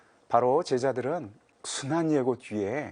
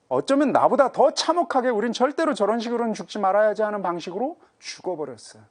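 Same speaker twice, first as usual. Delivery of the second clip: loud, much higher impassioned sermon cry; preaching at full force; 7 semitones higher, 8 dB louder than usual. Acted. Preacher voices the believers' anger at the Lord's death, in a loud impassioned cry. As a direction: pour out the grievance to the congregation, climbing.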